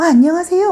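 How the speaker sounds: bright, very high pitch, hello slipping way up. Unconsciously greeting when a man is present, high-pitched greeting. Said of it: "약간 요렇게 자기도 모르게 좀 하이톤이 된다거나".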